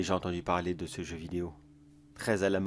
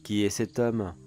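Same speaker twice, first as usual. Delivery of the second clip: a sly neighbor savoring his secret, a touch louder; theatrical sinister storyteller voice; gloating villain monologue; 4 dB louder than usual. Acted. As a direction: tease the listener like a smug creep.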